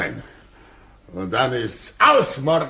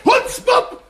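high, loud shouted insult; furious curse; 6 dB louder than usual. Acted. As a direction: hurl the insult after him. Curses the fleeing poacher.

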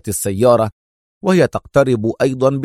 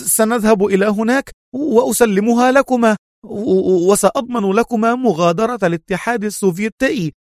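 quick nervous; 11 semitones higher than usual. A narrator's reading. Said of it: "صاح إيفان بسرعة".

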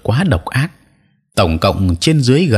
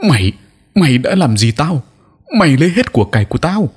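growling in rage; 8 semitones higher than usual. A narrator's reading. Robbed old sorcerer snarling at the disciple, enraged. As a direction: spit the accusation out. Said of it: "Lão thầy Bảy gầm gừ".

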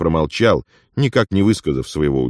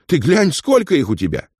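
much higher, excited exclaiming; amazed; 13 semitones higher than usual. Acted. Afonya marvels at Ilya's money, excited and high. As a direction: marvel at the pile of coins.

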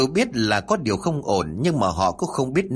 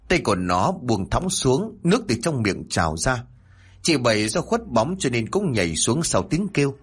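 ordinary delivery, nothing marked

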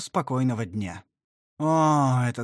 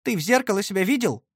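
higher, alarmed outcry from the aunt; exclaiming; 7 semitones higher, 4 dB louder, faster than usual. A narrator's reading. Aunt shocked at nephew's bruises, exclaiming. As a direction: exclaim in shock at his face. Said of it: "воскликнула тётя".

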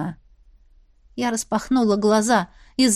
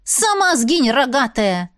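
snapping back; slower than usual. Acted. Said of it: "огрызнулась я мысленно".

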